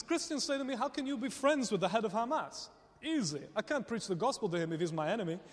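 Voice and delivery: playful imitation of a Dutch accent. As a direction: lightly impersonate a matter-of-fact Dutchman. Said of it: "That was my Dutch accent".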